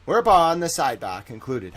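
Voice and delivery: court transcript read aloud with a touch of theatre; mock-dramatic courtroom reading. Shown as a demonstration. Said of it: "How was that for a dramatic reading?".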